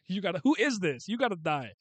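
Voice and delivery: loud, high burst of indignation; hammed-up threat at a story villain; mock outraged threat.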